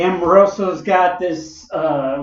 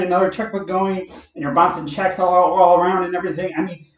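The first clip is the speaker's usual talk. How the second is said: sarcastic; 3 semitones higher than usual. Retold or imitated. Son needling his paranoid dad, sarcastic. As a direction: rub it in with fake enthusiasm. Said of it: "Don't be a smart ass".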